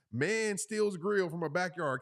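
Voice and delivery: slow, deliberate news-headline read; mock headline. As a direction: announce it like a tabloid headline. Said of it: "Can't you imagine that title?".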